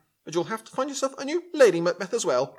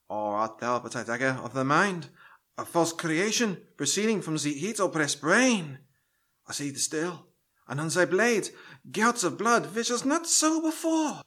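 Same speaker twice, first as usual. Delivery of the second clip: Shakespeare recital; 2 semitones lower, 3 dB quieter than usual. Acted. Actor reading Macbeth for the audition in stagey recital. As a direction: declaim it to the casting director. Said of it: "where was I".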